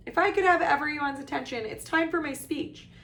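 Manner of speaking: high, loud call for attention; loud announcement. A narrator's reading. Ghost host starting his speech, loudly. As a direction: project over a noisy crowd. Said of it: "said Nearly Headless Nick loudly".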